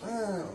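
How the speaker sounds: brief imitated washer hum; short soft motor drone; humming noise. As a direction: hum like a machine idling. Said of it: "making a little humming noise".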